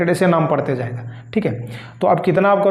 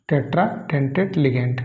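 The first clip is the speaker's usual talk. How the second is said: slow spelled-out term; 4 semitones lower, 5 dB quieter, much slower than usual. Shown as a demonstration. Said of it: "टेट्रा मतलब चार".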